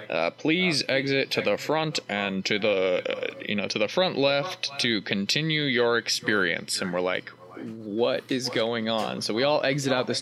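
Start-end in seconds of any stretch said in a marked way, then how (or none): 0.3-6.8 a measured, mildly put-on announcer voice; intercom announcer. Attendee retells the intercom directing the crowd out, mock announcer. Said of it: "this voice comes over the intercom". 7.6-9.2 slow, spaced-out bewildered question; mock bafflement. Attendee retells the crowd's confusion at the intercom, slowly baffled.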